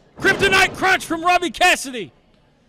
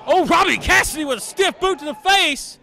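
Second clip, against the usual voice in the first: excited call. Real, not acted. Big hit called live.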